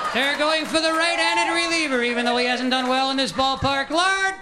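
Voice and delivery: high, sing-song froggy preaching; Kermit the Frog priest. Retold or imitated. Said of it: "priest delivery".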